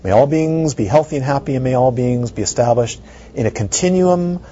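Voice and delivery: measured dedication read; formal blessing. Acted. Teacher dedicating merit to all beings, formal. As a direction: bless them, steady.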